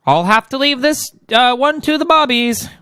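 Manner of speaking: high, bad English accent, slowing at the end. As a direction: put on an amateur British heroine voice. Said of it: "I can't do the English accent".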